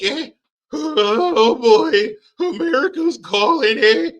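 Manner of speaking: high, nervous, hammed-up fluster; mock panic. A leader sweating as America calls, in hammed-up high panic. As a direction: fret like a man sweating bullets.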